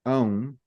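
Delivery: "aum" closed through the nose; nasal "aum" with closed lips; Portuguese nasal "aum"; nasal ending. Shown as a demonstration. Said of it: "ending in two O's and an M".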